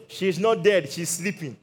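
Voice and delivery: matter-of-fact, easing away at the end; unworried statement. Retold or imitated. Jesus tells mourners about the girl, unworried statement. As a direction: state it as if nothing were wrong. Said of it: "Look at the way he talked".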